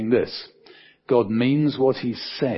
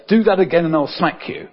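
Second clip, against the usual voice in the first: higher-pitched mock parental warning; parent's threat; 5 semitones higher, 3 dB louder than usual. Parent warning a child in the supermarket, mock threat.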